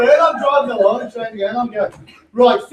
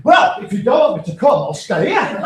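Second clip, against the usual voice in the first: mock wife; 2 semitones higher than usual. Wife voiced in argument.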